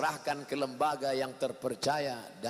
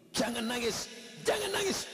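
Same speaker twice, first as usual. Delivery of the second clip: soothing, then much higher; a husband hushing his crying wife; husband comforting; 7 semitones higher than usual. Acted. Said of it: "Bapak harus kuatkan ibu".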